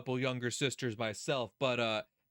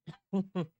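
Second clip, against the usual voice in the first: short higher-pitched chuckle; exasperated laugh; 6 semitones higher than usual. Real, not acted. Streamer reacts to victim blaming, exasperated laugh. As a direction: laugh it off in disbelief.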